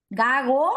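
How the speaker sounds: GAGO with a loose second g; fricative g. Shown as a demonstration. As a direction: let the middle g of GAGO flow without closing. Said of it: "pronuncio una fricativa velar".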